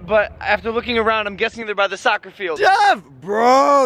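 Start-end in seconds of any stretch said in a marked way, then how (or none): 2.6-3.9 loud high shout of his name; calling out. Real, not acted. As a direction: yell across to greet him. Calling out to Jeff.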